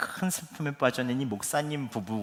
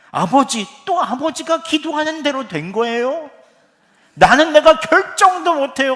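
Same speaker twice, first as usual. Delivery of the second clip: higher and much louder, building to a furious shout; angry outburst; 14 semitones higher, 12 dB louder than usual. Retold or imitated. Son lashing out at his praying father, furious shout. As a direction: blurt it out in resentful rage. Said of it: "너무 화가 나더래요".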